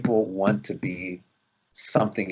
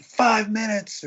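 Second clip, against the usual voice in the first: high, drawn-out mock call; long, slow sing-out, pitched way up; retold yelling; 11 semitones higher, much slower than usual. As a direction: imitate calling out a time warning to a crowd. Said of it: "and yelling out".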